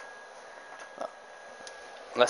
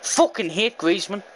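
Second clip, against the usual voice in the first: exasperated grumble; 6 semitones higher than usual. Real, not acted. Repeats the curse moments later.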